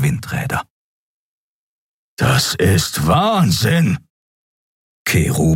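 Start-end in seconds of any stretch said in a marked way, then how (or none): 2.2-4.0 alarmed cry. Acted. Keru panics at reckless flight.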